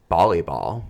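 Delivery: volleyball said with a B, as bolleyball; mispronounced word. Real, not acted. Woman owning up to her slip, mispronounced volleyball. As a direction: start volleyball with a B sound. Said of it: "volleyball makes sense, more sense than volleyball".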